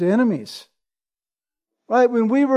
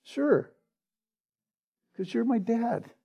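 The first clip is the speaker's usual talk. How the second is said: put-on soft, calm child's answer; a son calmly telling his father why he jumped, soft and sure; quiet calm reply; 11 dB quieter than usual. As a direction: answer simply and softly, no doubt at all. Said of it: "responded with remarkable calmness".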